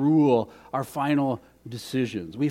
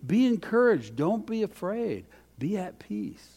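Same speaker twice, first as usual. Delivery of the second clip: fading gentle reassurance; 3 semitones higher than usual. Retold or imitated. God speaking to our hearts.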